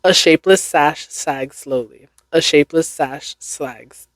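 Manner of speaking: tongue twister run through briskly without gaps. Shown as a demonstration. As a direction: pick up the pace and link the words. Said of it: "Now I gotta say it faster".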